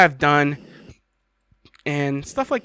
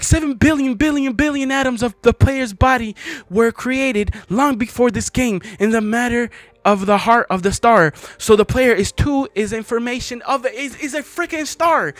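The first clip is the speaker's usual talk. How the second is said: declaiming the poem higher than his chat; poem reading, higher; 5 semitones higher than usual. Acted. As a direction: read it like a lofty revelation. Reads the End Poem aloud.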